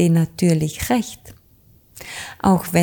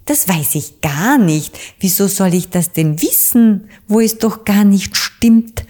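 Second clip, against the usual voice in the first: resolute witch; 3 semitones higher, 5 dB louder than usual. Acted. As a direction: insist firmly like the little witch. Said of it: "antwortete die kleine Hexe Dorothee resolut". (resolut und immer lauter)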